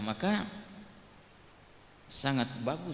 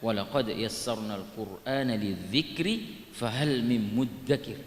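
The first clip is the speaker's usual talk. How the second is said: slow Arabic recitation; Quran recitation; 4 semitones lower, slower than usual. Acted. Teacher quoting Surah Al-Qamar in slow recitation. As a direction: recite the verse slowly. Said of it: "Allah mengatakan".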